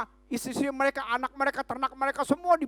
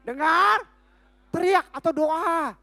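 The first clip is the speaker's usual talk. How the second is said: emphatic steps; 4 semitones higher, 5 dB louder, slower than usual. Acted. Preacher lists the DDT steps.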